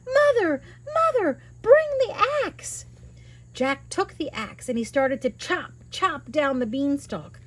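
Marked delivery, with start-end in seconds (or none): 0.1-2.8 high loud frantic call; yelling. Acted. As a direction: yell for Mother while running.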